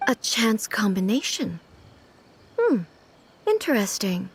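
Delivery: whispered musing to herself; thoughtful whisper. Acted. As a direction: breathe it out, turning the idea over.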